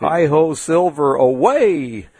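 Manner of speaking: mild mock cowboy yell, last word drawn out; Lone Ranger. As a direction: imitate a rider calling to his horse, without full volume. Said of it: "yell to his white horse".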